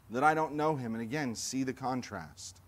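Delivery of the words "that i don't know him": heated denial. Acted. Peter swearing denial, escalating oath.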